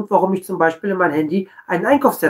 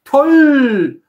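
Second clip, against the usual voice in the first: mock cheerful. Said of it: "freudestrahlend entgegengehen und sagen".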